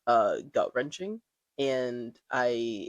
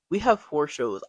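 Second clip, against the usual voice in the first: repeated louder, pressing the point; 2 semitones higher, 6 dB louder than usual. Retold or imitated. Retelling her panicked thought about four shows, louder repeat. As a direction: say it again, louder, stressing it to yourself. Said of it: "All I could think to myself".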